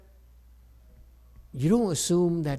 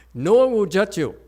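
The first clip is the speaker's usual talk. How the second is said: laughing; 6 semitones higher, 9 dB louder than usual. Real, not acted. Laughs while reassuring.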